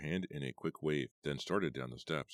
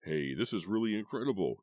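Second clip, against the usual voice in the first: excited declaration; 6 semitones higher, 5 dB louder than usual. A narrator's reading. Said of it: "he declared".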